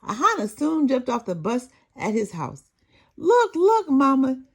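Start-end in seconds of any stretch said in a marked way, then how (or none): 3.2-4.4 high and loud, bursting with joy; a kid rushing in to show off his prize; excited child. Acted. Boy showing grandma his award, high, loud and excited.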